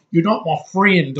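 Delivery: lightly mocking British accent. Reviewer mocking foreign actors' speech, mock British accent. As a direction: put on a bad British accent. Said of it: "They don't have shitty accents like".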